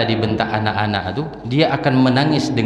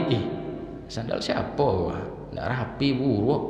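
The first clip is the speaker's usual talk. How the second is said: inner grumble; 3 semitones higher, 6 dB quieter than usual. Retold or imitated. Voicing inner judgmental thought.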